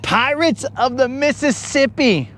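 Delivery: big announcer read of "Mississippi"; showman announcement. Shown as a demonstration. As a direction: sell the name like a showman. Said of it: "That is right".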